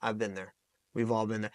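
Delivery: quiet, understanding reassurance; sincere empathy. Acted. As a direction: let them know they are not alone. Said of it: "Or just being this, man, like".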